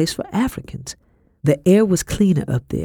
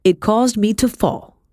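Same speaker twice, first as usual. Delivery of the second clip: higher, slow accusing scold; restrained scolding in a higher voice; scolding mistress; 7 semitones higher, slower than usual. A narrator's reading. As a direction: lay the blame on a servant, drawn out. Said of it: "she scolded me".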